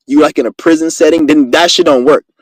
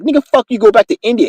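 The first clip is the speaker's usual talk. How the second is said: retold angry insult; 6 semitones higher than usual. Retelling his insult to a clerk.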